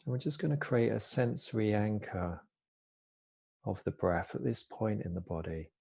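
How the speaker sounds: calm, unhurried body-scan guidance with long pauses; soft-spoken mindfulness teacher, easing each phrase down; guided meditation. Real, not acted. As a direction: gently guide listeners into stillness, pausing between phrases.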